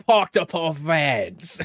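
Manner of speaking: slow, mock British tradesman accent; imitating a tradesman. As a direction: parody the bloke's slow Parked up our vans. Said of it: "by the way he says".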